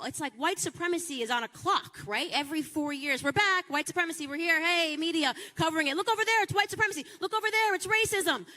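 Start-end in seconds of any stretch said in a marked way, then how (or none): 3.2-8.4 higher, fast mock alarm; a hammed-up newscaster crying wolf; mock media hype. Mocking the media pointing at racism, higher and fast.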